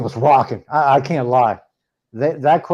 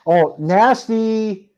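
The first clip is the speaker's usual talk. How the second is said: slow, higher, drawn-out jeer; teasing, long-held words; mock dismay; 5 semitones higher, much slower than usual. Teasing about an opponent's schedule.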